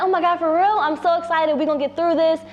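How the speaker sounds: lightly voiced happy boyfriend; mock excited. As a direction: boyfriend reacting gladly to the pregnancy news. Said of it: "going on about how happy he was".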